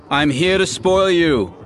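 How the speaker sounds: bright teasing greeting; playful young woman. Acted. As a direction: tease him fondly. Dara greets uncle playfully.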